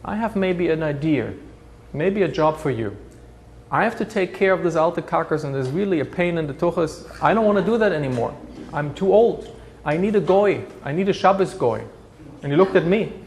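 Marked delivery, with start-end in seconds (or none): 0.0-11.8 hint of a weary old man striking a deal; old Jewish community chair. Survivor offering the German youth a job, lightly voiced old man.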